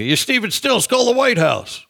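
mock-urgent, very high-pitched quote; retold urging. Retold insistent demand to a singer.

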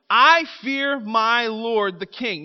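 drawn out slowly, each word weighed; slow scripture quote. Acted. Preacher reading the eunuch's words slowly to the church. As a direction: lay it out slowly and gravely. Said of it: "The chief eunuch said to Daniel".

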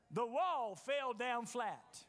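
slow, shouted climax; triumphant shout. Acted. Preacher telling the church the wall fell, slow shout. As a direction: drag it out and shout it.

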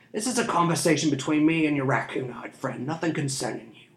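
smug, drawling scoundrel; sly thief. A narrator's reading. Thief mocking the street urchins, smug. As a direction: taunt the children lazily.

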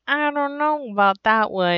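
lightly voiced reluctant doubter; a hint of skeptical character voice; Bob. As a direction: imitate someone hedging, noncommittal. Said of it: "Bob is just like".

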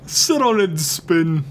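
play-insult in a Jersey voice; North Jersey accent. Pretend. Podcaster topping co-host's taunt, North Jersey accent. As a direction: jeer with put-on Jersey vowels. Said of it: "It's like North Jersey now".

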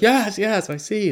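high, squeaky yes-yes; mock meek agreement. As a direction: play a cowed viewer nodding along. Mock viewer agreeing, much higher.

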